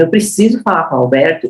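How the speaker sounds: confident, firm request; with authority. Shown as a demonstration. Trainer demos asking for the boss with authority. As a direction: say it like you own the call. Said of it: "quando eu falo com propriedade".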